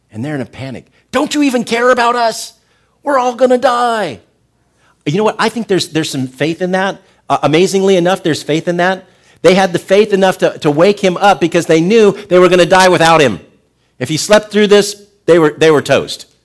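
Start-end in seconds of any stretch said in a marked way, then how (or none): 1.1-4.2 high, loud, desperate cry; panicked shout. Acted. Frightened disciples wake Jesus in the storm, panicked shouting. 5.1-16.3 high, loud, fervent preaching; full-force preaching. Acted. Preacher drives home faith to the congregation, fervent and loud.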